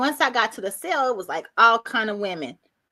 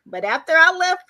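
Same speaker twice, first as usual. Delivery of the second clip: high, amused voice breaking into laughter; real laugh rising through the words; 7 semitones higher, 4 dB louder than usual. Real, not acted. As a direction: say it high, starting to crack up. Breaks into laughing while telling.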